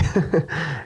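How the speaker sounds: short pained laugh, holding back tears; rueful laugh. Real, not acted. Fighter after a loss, answering reporters, pained laugh. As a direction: laugh it off to keep from crying. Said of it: "I'm laughing 'cause I don't wanna cry".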